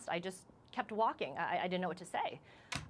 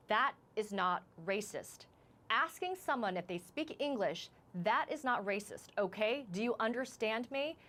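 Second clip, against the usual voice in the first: angry officer; 3 semitones higher than usual. Retold or imitated. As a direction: imitate an officer's stern rebuke with restrained force. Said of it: "he said very angrily".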